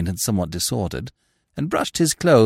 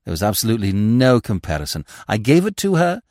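lightly theatrical, rising and falling plea; a hint of noble orator; mock-heroic gentleman. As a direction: justify the theft as chivalry. Smith's mock-heroic justification.

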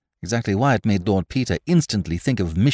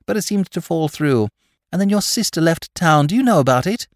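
put-on eager young woman; 3 semitones higher than usual. Tarrant chatting on.

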